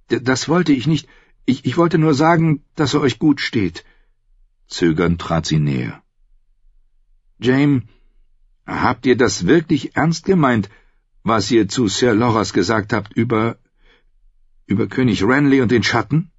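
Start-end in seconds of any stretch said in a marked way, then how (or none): 0.1-3.8 voiced higher as the young woman Brienne; shy woman knight voice, pitched up; Brienne's voice. 7.4-16.3 voiced higher as the young woman Brienne; shy woman knight voice, pitched up; Brienne's voice.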